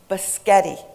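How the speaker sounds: "Biscotti" said as buh-SKET-ee; a two-year-old's botched spaghetti, "Biscotti" as buh-SKET-ee; toddler mispronunciation. Retold or imitated. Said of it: "was incensed at the pronunciation".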